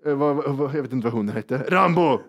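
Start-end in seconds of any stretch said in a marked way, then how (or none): 1.7-2.2 first, moderate call for the dog. Retold or imitated. Dog owner looking for her dog on the train, calling out. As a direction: call the dog's name, not yet alarmed. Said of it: "Och skriker".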